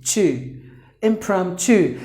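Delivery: "Impromptu" ending in "chu" for the T U; chu sound. Shown as a demonstration. Teacher showing T U like C H U, chu ending. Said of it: "How would you pronounce?".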